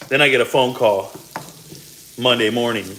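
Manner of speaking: ordinary talk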